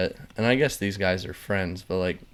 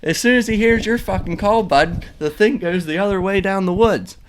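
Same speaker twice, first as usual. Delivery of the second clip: high, loud ranting know-it-all; imitated angry lecture; 9 semitones higher, 7 dB louder than usual. Pirate coworker lecturing the kid on turkey calls, loud angry rant. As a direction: hammer the point home like an angry blowhard. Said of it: "He's like".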